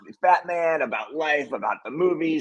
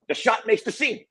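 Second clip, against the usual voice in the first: higher mock Mel; 8 semitones higher than usual. Mel's line quoted, pitched up.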